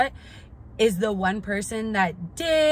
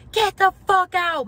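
much higher, louder retold yell; mom yelling; 10 semitones higher, 8 dB louder than usual. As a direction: bark her out of the room. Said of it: "She's like".

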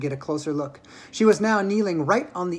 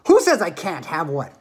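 shouted; 4 dB louder than usual. Acted. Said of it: "shouted Veruca".

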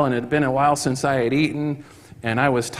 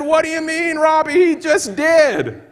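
excited retort; 14 semitones higher, 3 dB louder than usual. Retold or imitated. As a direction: toss it back, thrilled.

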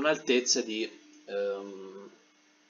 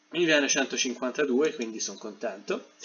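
with hiccups. Real, not acted. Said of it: "Scusate per il singhiozzo".

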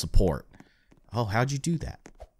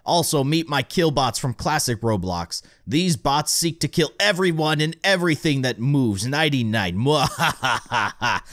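mad scientist; 3 semitones higher than usual. Acted. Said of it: "John Doe, he's quite the villain".

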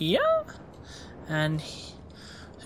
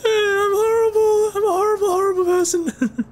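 much higher, louder, laughing; 4 dB louder than usual. Real, not acted. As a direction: squeal it through laughter. High laughing self-mockery.

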